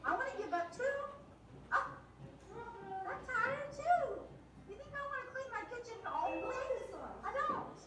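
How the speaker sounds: high, insistent venting; fed-up mom venting, high and emphatic; impassioned retort. Retold or imitated. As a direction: pour it out, pitch rising. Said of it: "I'll say".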